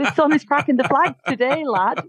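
put-on The sun is cracking the flags today, lad in a light Lancashire accent. Guest shows off the Lancashire saying, light Lancashire accent. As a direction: lean into a northern English Lancashire lilt, ending on lad. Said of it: "I love that Lancashire accent".

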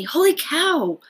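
high, loud startled cry; boy startled by his sister's whisper. Acted. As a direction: jump out of your skin. Startled, about to jump.

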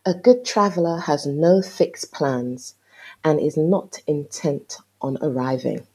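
slow, loud, deliberate reading of a quote; measured recital of an opening quote. Acted. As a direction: read the quote out slowly and firmly, like an epigraph. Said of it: "Today's opening quote is".

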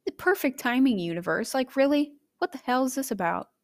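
high, exasperated complaining at the universe; retelling her phone meltdown, high exasperated rant; frustrated rant. Retold or imitated. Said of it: "And I was like".

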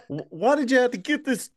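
high, laughing whine; a hint of a whiny sick kid; mock whiny complaint. Sick boy complaining to family.

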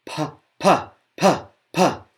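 sharp unaspirated pa bursts; pushed pa. Shown as a demonstration. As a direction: punch each pa out from the belly. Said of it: "Push from your belly".

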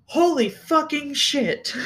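mock scream. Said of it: "you're screaming at the top of your lungs".

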